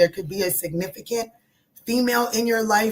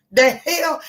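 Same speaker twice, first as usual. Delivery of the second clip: indignant disbelief; 7 semitones higher, 5 dB louder than usual. Real, not acted. Indignant at church rule.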